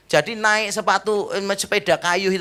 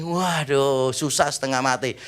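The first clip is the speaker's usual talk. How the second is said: normal talking voice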